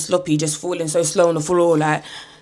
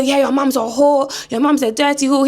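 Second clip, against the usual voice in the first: taunting granddad; 6 semitones higher, 3 dB louder than usual. Retold or imitated. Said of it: "Granddad's still talking crazy".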